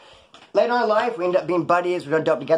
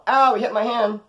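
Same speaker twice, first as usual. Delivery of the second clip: high, louder whiny accusing voice; mock accusation; 8 semitones higher, 4 dB louder than usual. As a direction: play her crying foul for the bailiff. Wife accusing him loudly.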